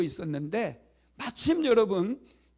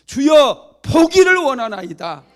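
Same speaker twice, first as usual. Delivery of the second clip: pleading cry; 7 semitones higher, 13 dB louder, slower than usual. Acted. Beggar answers Jesus.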